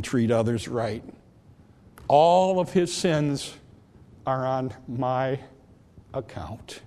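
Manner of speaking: soft, slow and tender pleading; Jesus speaking tenderly to the Father; sweetest voice. Retold or imitated. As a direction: gently vouch for him to the Father. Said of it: "He said it was the sweetest voice".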